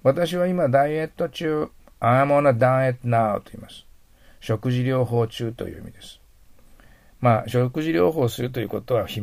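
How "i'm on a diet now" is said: slow model reading. Shown as a demonstration.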